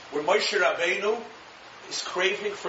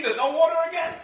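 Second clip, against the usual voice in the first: much higher, whiny protest; hammed-up high complaint; mock screaming; 4 semitones higher than usual. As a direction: imitate a thirsty crowd yelling. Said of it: "They're screaming".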